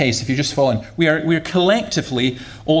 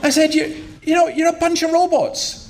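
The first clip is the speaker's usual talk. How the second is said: heated retort; 11 semitones higher than usual. Retold or imitated. Retorting to mate in queue.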